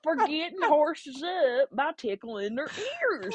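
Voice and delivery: put-on high, very slow country accent; mock country accent with long stretched words. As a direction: insist slowly as a country caller, amused. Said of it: "kinda country accent".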